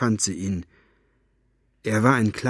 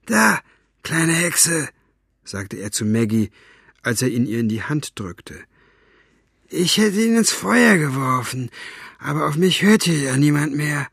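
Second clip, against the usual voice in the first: grumbling thug voice; 4 semitones higher than usual. Acted. Buster grumbling.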